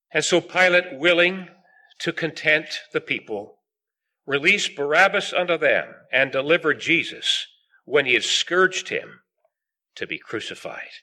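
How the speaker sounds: measured Bible reading, phrase by phrase; scripture reading. Acted. Preacher reading a verse of Mark to the meeting, solemn scripture reading. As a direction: read it out solemnly, sinking on the final words. Reads scripture aloud to congregation.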